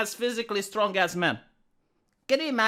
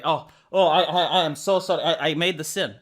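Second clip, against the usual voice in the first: laughing fake apology; 3 semitones lower than usual.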